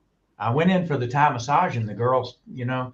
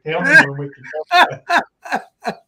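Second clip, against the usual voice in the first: much higher and louder, eager to return; eager excitement; 12 semitones higher, 7 dB louder than usual. Retold or imitated. Husband telling wife he wants to return, eager and thrilled. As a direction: beg to come back, thrilled.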